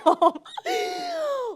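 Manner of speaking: loud high laugh; real laugh at her own anger; high shrieking laugh. Real, not acted. Laughs at herself.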